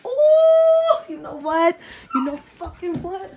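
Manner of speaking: mock crying. Girlfriend breaks into mock crying.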